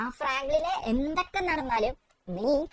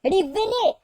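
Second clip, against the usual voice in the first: Shinchan voice; 3 semitones higher, 3 dB louder than usual. Acted.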